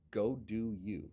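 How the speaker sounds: soft unvoiced whisper of encouragement; whispered urging. Real, not acted. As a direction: lean in and breathe it as a push. Urging a friend, quietly.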